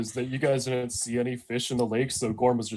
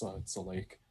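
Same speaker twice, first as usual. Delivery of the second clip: quiet dry mutter; under his breath; 5 semitones lower, 16 dB quieter than usual. Acted. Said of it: "under his breath, quietly says".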